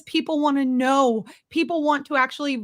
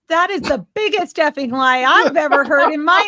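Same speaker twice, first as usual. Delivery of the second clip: high, loud indignant rant; furious disbelief; real outrage; 7 semitones higher, 4 dB louder than usual. Real, not acted. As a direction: let the anger burst out high. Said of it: "I'm so mad".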